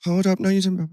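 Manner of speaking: high, sassy diva put-down; sassy drag quote. Retold or imitated. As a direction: snap it like a drag queen on stage. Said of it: "and I'd go".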